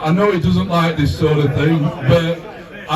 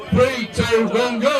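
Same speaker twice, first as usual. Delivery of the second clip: calling a countdown; 5 semitones higher than usual. Real, not acted. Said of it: "Countdown from three".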